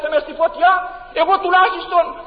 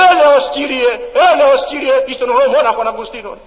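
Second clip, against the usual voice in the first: loud, desperate plea for mercy; a sinner's loud, begging cry at judgement; pleading cry; 4 dB louder than usual. Pretend. Saved soul pleads before judgement.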